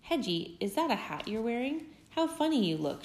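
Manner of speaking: lightly voiced farm dog poking fun; barking farm dog. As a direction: tease him like a bossy farm dog. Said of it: "she barked".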